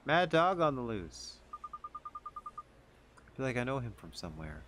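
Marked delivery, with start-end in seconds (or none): 0.1-1.4 dramatic announcer. Pretend.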